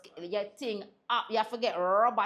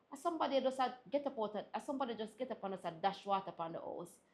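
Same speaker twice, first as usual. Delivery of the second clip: quick, throwaway mock explanation; sarcastic reply; 7 dB quieter, faster than usual. Stylist answers client's obvious question, sarcastic. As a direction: rattle off the absurd answer as if obvious. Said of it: "Jamaican sarcasm".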